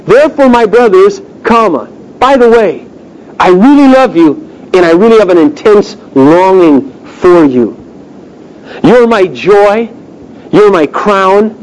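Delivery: pastor voicing Paul's love, slowing at the end; tender paraphrase. Shown as a demonstration. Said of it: "what he says is he says this".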